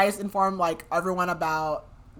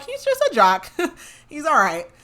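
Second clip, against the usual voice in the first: giggling, much higher, quoting the dads; laughing high quote; 9 semitones higher, 8 dB louder than usual. Retold or imitated. Dads laughing about their jock son, voice jumping high. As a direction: laugh through it, pitch way up.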